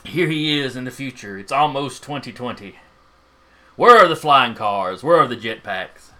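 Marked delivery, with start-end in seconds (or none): 3.8-6.1 ranting madman. Acted. GM voices ranting scientist.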